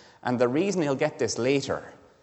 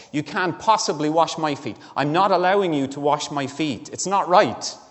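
rising, louder indignant protest, building to a peak; mock-outraged disciple refusing to let his master stoop; 4 semitones higher, 5 dB louder than usual. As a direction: refuse him, offended that he'd even try. There's a tone of outrage here almost.

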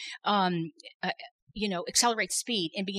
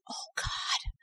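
desperate cry to God; 7 semitones higher, much slower than usual. Retold or imitated. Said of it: "Out of my spirit, I said".

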